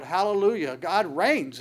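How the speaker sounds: crying out. Retold or imitated. Preacher voicing saints in Revelation, crying out. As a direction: proclaim it like the saints, a little lifted. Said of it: "crying out".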